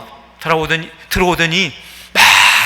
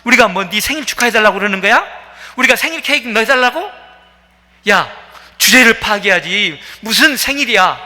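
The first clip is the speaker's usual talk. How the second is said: fast, higher, scornful scolding; mock angry scolding; 3 semitones higher than usual. One woman mocks the birthday woman, scornful scolding. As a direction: snap at her like a jeering street companion. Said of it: "화를 내면서 막 구박을 하는데".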